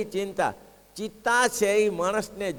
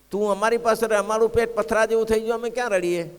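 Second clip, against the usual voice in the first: higher, louder mock rebuke to the crying cook; gentle rebuke raised; 6 semitones higher, 5 dB louder than usual. Maharaj answers the weeping cook, raised and louder. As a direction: lift the voice, half scolding, half teasing. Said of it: "મહારાજ કે".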